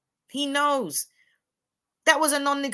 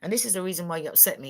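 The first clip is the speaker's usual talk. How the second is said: much softer, gentle and low; hushed, patient explanation, no raised voice; calm explaining; 6 semitones lower, 9 dB quieter than usual. Retold or imitated. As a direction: speak softly and evenly, as if reasoning with your man. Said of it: "I'll say".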